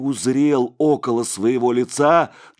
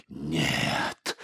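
faint, wheezed "Нет"; monk under the hot poker refuses, wheezing; 7 semitones lower, 7 dB quieter than usual. A narrator's reading. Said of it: "сипел отец Егорий".

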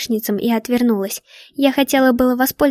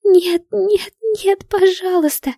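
desperate pleading; 10 semitones higher, slower than usual. A narrator's reading. Heroine begging as James is stabbed, desperate. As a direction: beg as if you can't bear it.

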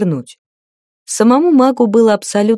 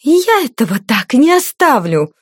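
higher, hissed threat; spiteful hiss; 5 semitones higher than usual. A narrator's reading. Bruised lady vows revenge, spiteful hiss. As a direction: hiss it through the hurt. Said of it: "прошипела ушибленная злюка".

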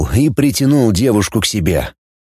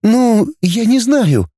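higher, slow, deflated; wilting girl Dana; 11 semitones higher, slower than usual. A narrator's reading. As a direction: trail off, girlish and deflated. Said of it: "увяла Дана". (девушка сникла, медленно, выше)

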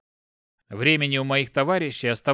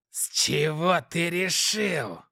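fake laugh; 3 semitones higher, slower than usual. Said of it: "рассмеялся демон".

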